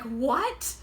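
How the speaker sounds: baffled, fast and loud indignation; hammed-up entitled disbelief; mock entitled outrage. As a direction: play a spoiled man shocked at blame. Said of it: "He's like".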